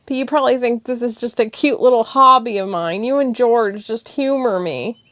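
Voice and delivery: tearful and defensive; upset girlfriend pouring it out; emotional. Acted. Thessia emotional speech.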